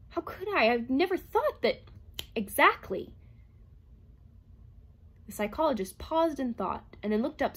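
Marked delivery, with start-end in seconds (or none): 0.1-3.1 higher robot voice; plain machine logic. A narrator's reading. Herbie answering Calvin in a lightly higher voice.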